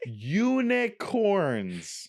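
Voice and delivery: slow, stretched syllables; over enunciating. Shown as a demonstration. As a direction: exaggerate each syllable for lip reading. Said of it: "You have to read my lips".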